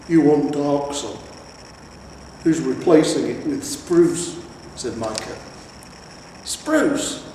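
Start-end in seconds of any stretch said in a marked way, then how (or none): 0.1-4.4 slow, louder troll retort; a troll throwing it back slowly; lightly voiced troll; sardonic troll. Troll's voice in the reading. 6.4-7.2 much higher incredulous spruce; shocked old hero; aghast echo. Acted.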